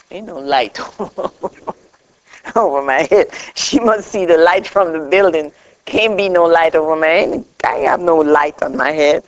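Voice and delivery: scoffing through a laugh; retold protest that breaks into laughter; amused disbelief. Retelling her disbelief, laughing.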